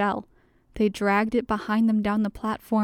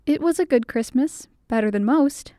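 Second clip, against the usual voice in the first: brighter and a bit higher, pleased; delighted; 3 semitones higher, 4 dB louder than usual. Acted. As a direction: answer with open delight. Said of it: "she replied with delight in her voice".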